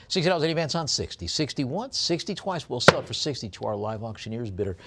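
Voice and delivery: quick, punchy bid calling, pitch jumping up on once and twice; auctioneer's call. Acted. Auctioneer calling bids to the online bidders, brisk and rhythmic. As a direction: rattle off the bids like a live auctioneer. Calls bids on coin lot.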